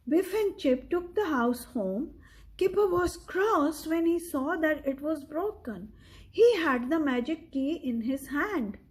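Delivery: steady read-aloud storytelling voice; story narration. A narrator's reading. Parent reading a picture book to a child, measured storyteller. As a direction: read the story clearly to a young listener.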